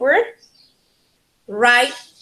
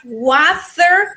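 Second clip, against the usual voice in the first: WATER drawn out in the first of two accents, British or American; WATER slowed for an accent comparison; accent contrast; 4 semitones higher, 4 dB louder than usual. Shown as a demonstration. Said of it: "the British accent and the American accent".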